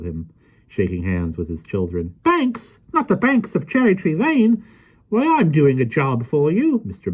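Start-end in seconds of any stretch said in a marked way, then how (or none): 2.2-6.8 put-on high, lively voice of a small old man; gentle, chatty little fellow; kindly little man. Mister Mo speaks.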